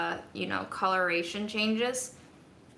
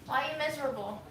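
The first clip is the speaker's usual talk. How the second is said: pet talk; 7 semitones higher, 4 dB quieter than usual. Acted. Talking to sad pet Del, high cooing baby talk.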